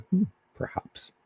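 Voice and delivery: breathy high whisper, slow and thoughtful; musing whisper. Retold or imitated. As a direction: mull it over in a hushed whisper, pondering. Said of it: "go walk around and say".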